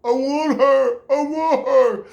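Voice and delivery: high, loud longing cry; eager, high-pitched pining in your head; eager inner voice. Retold or imitated. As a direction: blurt it out like an excited inner voice. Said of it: "I was not like that in my brain".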